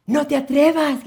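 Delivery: very high, loud shrieked warning; furious scream. Acted. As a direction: scream it to stop him. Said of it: "gritó la esposa".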